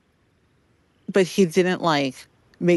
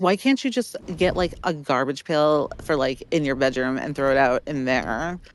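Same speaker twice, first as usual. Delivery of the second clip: ordinary talk, nothing marked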